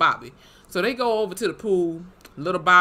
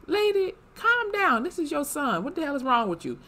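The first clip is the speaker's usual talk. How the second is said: exasperated retort; 10 semitones higher than usual. Retold or imitated. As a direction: tell the mom off in disbelief. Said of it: "I'm like".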